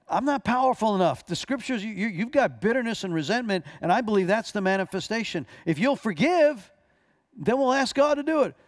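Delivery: pushing harder and harder to convince her; rising insistence. Retold or imitated. Pastor arguing with unforgiving woman.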